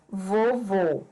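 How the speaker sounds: "vovô" with a long final VÔ; stress on the accented syllable. Shown as a demonstration. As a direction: lean on the last syllable VÔ in "vovô". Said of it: "O mesmo ocorre com o acento circunflexo".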